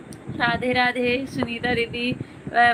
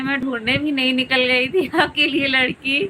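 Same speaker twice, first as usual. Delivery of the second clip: laughing. Real, not acted. Laughing at joke about finding bride.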